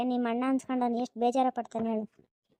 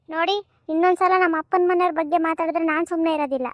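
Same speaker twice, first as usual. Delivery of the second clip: a lightly raised, complaining daughter-in-law voice; aggrieved young wife; 3 semitones higher, 4 dB louder than usual. Acted. Young wife complains to her husband about his sister, hurt and indignant. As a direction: plead your case to your husband, wounded and indignant.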